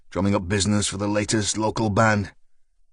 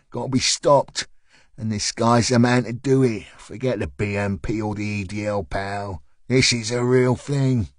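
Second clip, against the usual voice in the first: lightly voiced South London man, recruiting; South London accent. A leaflet man recruiting a jogger, light South London accent. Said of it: "answered in a South London accent".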